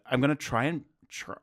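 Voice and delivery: tougher Midwestern guy accent; put-on Midwestern accent, a bit tough; American accent. Shown as a demonstration. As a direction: try a normal-sounding American accent. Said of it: "sound like just a tougher Midwestern guy".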